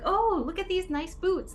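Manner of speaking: drawn-out, high-pitched mock admiration; feigned admiration. Making the boot toss look natural, feigned admiration. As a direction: put on slow, high, exaggerated wonder.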